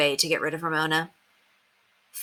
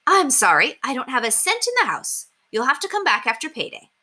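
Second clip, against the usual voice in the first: harried mother; 7 semitones higher than usual. A narrator's reading. Harried Miss Kelly voiced.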